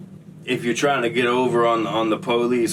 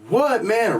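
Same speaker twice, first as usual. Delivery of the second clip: mock annoyed what; 9 semitones higher than usual. Answering the guard annoyed.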